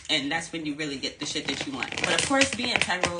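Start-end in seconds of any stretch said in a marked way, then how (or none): 2.0-3.2 emphatic. Shown as a demonstration. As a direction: say it out loud, strong. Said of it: "loud then quiet repeat".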